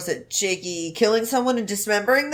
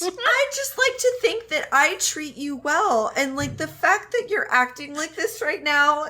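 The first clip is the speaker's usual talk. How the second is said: apology video voice. Pretend. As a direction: play the hurt celebrity apologizing. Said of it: "His apology video voice".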